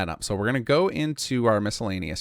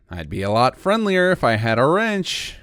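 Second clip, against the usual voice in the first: dry sarcastic NPC line, louder; 4 semitones higher, 6 dB louder than usual. Acted. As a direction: say it with a sarcastic edge. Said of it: "a kind of sarcastic one".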